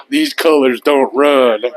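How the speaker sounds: slow, drawn-out Southern drawl; southern twang. Pretend. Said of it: "he's got that southern racist twang to it".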